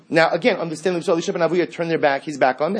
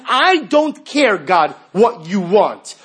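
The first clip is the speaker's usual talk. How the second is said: defiant reply; 2 semitones higher, 4 dB louder, much slower than usual. Real, not acted. Defiant answer to God.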